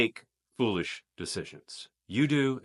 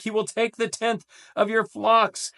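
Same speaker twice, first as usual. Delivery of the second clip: He will take high, flocks stressed; 12 semitones higher than usual. Shown as a demonstration. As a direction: drive home He will take. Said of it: "I tried to emphasize it for you".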